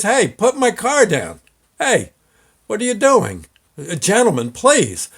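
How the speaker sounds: high, pleading protest. Retold or imitated. Driver protests car being lifted.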